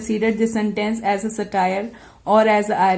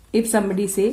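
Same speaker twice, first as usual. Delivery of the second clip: ordinary talk, nothing marked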